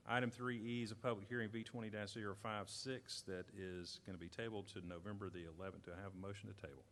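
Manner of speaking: a light hint of an auctioneer. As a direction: rattle off items like an auctioneer. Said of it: "we'll see how I can get my auctioneer voice going".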